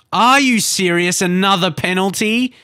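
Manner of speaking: loud, high, slowed outrage; outraged disbelief. Real, not acted. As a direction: yell at the ref's decision in disbelief. Penalty conceded in game.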